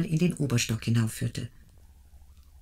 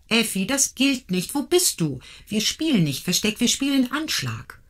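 calling after a hidden friend, raised and high; playful raised call; 6 semitones higher than usual. Acted. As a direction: call out across the garden. Girls calling after hiding Effi.

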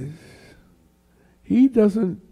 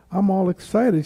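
higher-pitched retold child's excitement; mock childlike enthusiasm; excited child; 6 semitones higher, 3 dB louder than usual. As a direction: share big news like an excited little girl. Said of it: "she made it sound so great".

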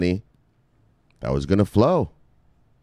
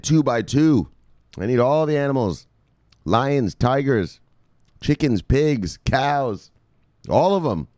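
lightly raised, commanding voice of God; voice of the Lord; 6 semitones higher, slower than usual. Acted. The Lord orders Noah to gather every animal, mildly raised voice. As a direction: call out the Lord's orders a little higher. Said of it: "The Lord said".

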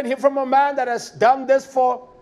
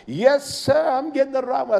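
put-on old woman voice; 4 semitones higher than usual. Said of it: "That's the way she talks".

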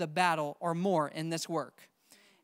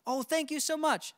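grateful householder; 5 semitones higher than usual. Retold or imitated. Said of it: "The other one's gonna be".

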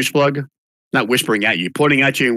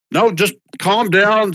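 put-on calming old man; 8 semitones higher, slower than usual. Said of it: "the guy with the big white beard".

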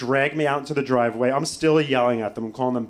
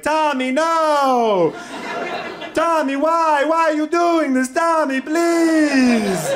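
put-on very high, drawn-out Italian-accented shriek; screaming Italian accent; 9 dB louder, much slower than usual. Mom screaming at son from hallway, panicked Italian accent. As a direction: wail like a panicked Italian mother, stretching each cry. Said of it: "screaming and yelling. And when she gets very nervous, she gets, like, an Italian accent".

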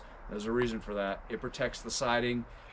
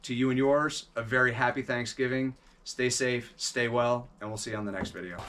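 sign-off spiel. Real, not acted. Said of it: "do the spiel".

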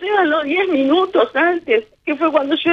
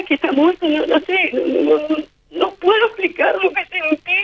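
ordinary talk, nothing marked

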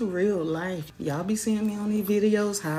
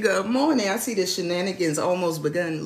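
mock formal Sonny Brown; 5 dB louder than usual. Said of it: "Sonny Brown said".

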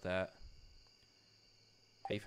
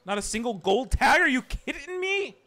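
high, loud disbelieving yell at the game; outraged yell; 13 semitones higher, 12 dB louder than usual. Real, not acted. Streamer yelling at a fishing game, outraged. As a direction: scream at the screen in disbelief. Gamer outraged at no gold tag.

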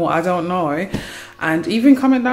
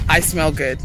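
smug; 4 semitones lower than usual. Shown as a demonstration. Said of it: "You lot hear that?".

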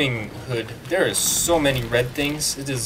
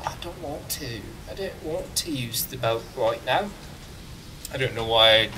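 put-on British accent; 5 dB quieter than usual. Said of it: "used my crappy British accent".

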